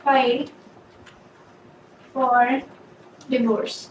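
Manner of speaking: word by word with long pauses; halting, isolated words; slow dictation. Shown as a demonstration. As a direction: dictate it slowly as you write. Dictating example while writing it out.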